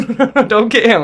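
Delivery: high, loud mock plea; panicked pleading. Hurt child begs that dad not be fetched, panicked pleading. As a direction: plead in a rising rush of no's.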